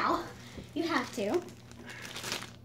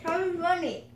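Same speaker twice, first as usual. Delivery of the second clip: cheeks stuffed full; 2 semitones higher than usual. Real, not acted. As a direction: mouth crammed with marshmallows.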